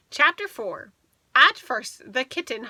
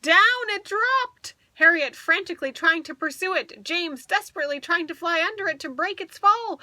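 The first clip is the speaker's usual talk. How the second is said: higher and louder as the kitten falls and flies; rising excitement; 5 semitones higher, 4 dB louder than usual. A narrator's reading. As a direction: build the suspense to the flight.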